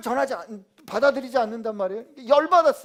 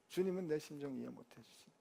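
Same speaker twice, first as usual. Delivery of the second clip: 주님은 내 심정 이해 못 해주시네 repeated much softer, under the breath; muttered grumble; 6 semitones lower, 14 dB quieter than usual. Pretend. Pastor as Paul, muttering his complaint to himself. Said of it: "제가 바울이라면 저 열 더 받았을 것 같아요".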